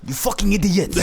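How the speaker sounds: high, mock outraged cry; Wolfenstein character. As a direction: exclaim it as an exasperated game character. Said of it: "the guy from Wolfenstein being like".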